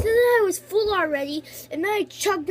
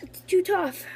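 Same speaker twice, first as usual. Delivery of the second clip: mouth full; 2 semitones higher than usual. Real, not acted. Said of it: "I can't swallow it".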